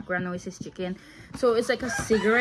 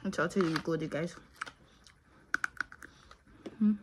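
talking around candy stick; candy stick in mouth; 2 semitones lower, 6 dB quieter than usual. Real, not acted. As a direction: lips holding thin stick. Seen 0: Candy cigarette held between lips while talking, removed near 4.7s.

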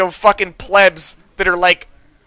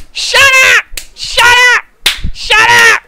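mock yell; 13 semitones higher, 5 dB louder, slower than usual. Mother yelling at kids.

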